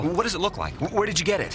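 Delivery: eager questions piling up; excited reporter, barely pausing; rapid-fire questioning. Acted. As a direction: talk over the interruption like an auctioneer. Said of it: "You sound like an auctioneer".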